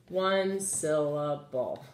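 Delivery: One syllable drawn out slowly; slowed for counting. Shown as a demonstration. Teacher repeating the word count to pupils, slowed. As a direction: stretch One syllable out so they hear one beat. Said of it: "but just one syllable".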